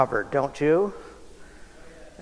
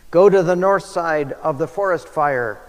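mock yell; 4 semitones higher, 4 dB louder than usual. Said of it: "yelled the photographer".

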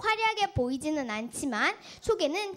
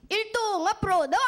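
barked military command, higher; drill sergeant; 5 semitones higher, 4 dB louder than usual. Acted. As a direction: order the troops forward.

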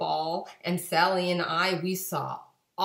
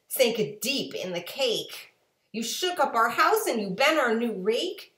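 much higher, louder scolding fish; 8 semitones higher, 6 dB louder than usual. A narrator's reading. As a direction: scold the cat in a high squeak.

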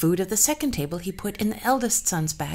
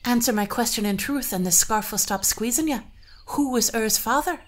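demanding bride; 5 semitones higher, 4 dB louder than usual. Acted. Bride interrogates the queen.

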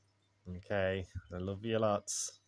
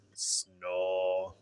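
mock snore; 3 dB louder than usual. A narrator's reading. Ted's snore voiced in story.

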